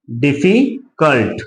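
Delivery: "डिफिकल्ट" said as one slow unbroken word; word said slowly. Shown as a demonstration. Teacher says "डिफिकल्ट" whole for students, slowly. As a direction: let "डिफिकल्ट" come out whole, unhurried. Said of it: "ये तीन syllable में बोला जा रहा है".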